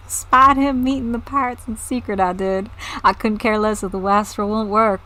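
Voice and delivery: lightly put-on southern farmer voice; southern accent. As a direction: read the villager with a southern twang. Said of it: "reading in what they say in those accents".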